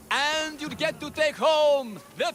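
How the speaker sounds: announcer shout. Acted.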